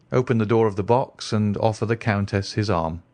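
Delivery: usual speaking voice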